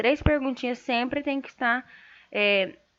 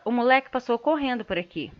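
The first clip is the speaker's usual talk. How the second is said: pejorative tone; faster than usual. Shown as a demonstration. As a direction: say "moleque" as a put-down. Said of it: "a entonação da voz que muda". (tom pejorativo)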